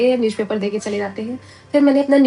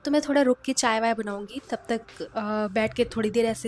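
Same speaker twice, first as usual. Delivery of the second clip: talking through a toothbrush; while brushing teeth; 5 dB quieter than usual. Real, not acted. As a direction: mouth full of toothpaste. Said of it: "तो अभी मैं यहाँ पे brush कर रही हूँ".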